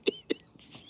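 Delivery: squeaky mock cursing husband; mimicking husband. Imitating the angry husband cursing the cat. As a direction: ham up his pained curse. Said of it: "He was like".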